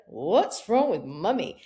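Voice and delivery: put-on slow, puzzled child's question; a hint of a worried little girl; lightly voiced daughter. Daughter on chairlift asking about mum, light child voice. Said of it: "she went".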